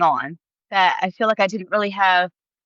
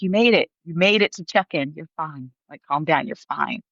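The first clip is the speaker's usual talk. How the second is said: calming check-in agent; 3 semitones lower than usual. Retold or imitated. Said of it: "the guy was just like".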